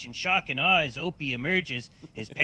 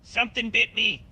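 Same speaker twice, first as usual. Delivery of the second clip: sudden pain yelp; 7 semitones higher, 3 dB louder than usual. Acted. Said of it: "feeling a sudden pain".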